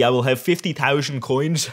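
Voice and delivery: mock Dutch accent. Vlogger joking about his Dutch team, mock Dutch accent. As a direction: put on a light, jokey Dutch accent. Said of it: "I'll stop the Dutch accent".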